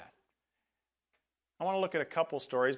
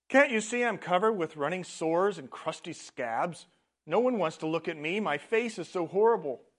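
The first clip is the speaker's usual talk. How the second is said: higher and louder, a pained lament; anguished leper; 5 semitones higher, 7 dB louder than usual. A narrator's reading. Leper laments his sores to Jesus, higher louder anguish. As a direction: pour out the misery of the sores.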